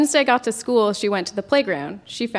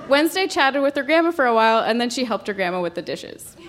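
laughing. Real, not acted. Narrator giggling through story.

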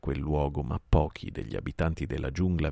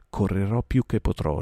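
anxious; 4 semitones higher, 5 dB louder than usual. Acted. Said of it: "rispose ansiosamente".

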